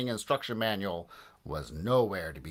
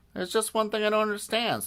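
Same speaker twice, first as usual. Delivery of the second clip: put-on high-pitched boy character; puzzled boy; 11 semitones higher than usual. A narrator's reading. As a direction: play a puzzled kid, pitched well up. George voiced in a story.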